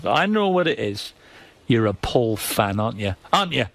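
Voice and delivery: lightly mock the Geordie twang, accusing; light Geordie accent. Geordie accent mocking the caller who accuses him of being a Paul fan. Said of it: "that Geordie voice".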